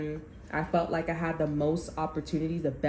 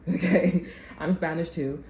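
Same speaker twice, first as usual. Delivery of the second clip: laughing; 4 dB louder than usual. Real, not acted. Laughs while insisting on heritage.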